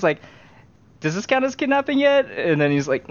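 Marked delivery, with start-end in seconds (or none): 1.0-2.3 high, playful mock-innocent voice; lightly voiced naive accomplice; sheepish question. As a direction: ask it like a guilty kid. Asking during botched kidnapping.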